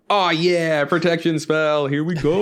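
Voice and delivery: drawn-out, mildly hyped cheer; relishing it, stretch out the words; excited reaction. Retold or imitated. Recalling his reaction to the spell, mildly excited.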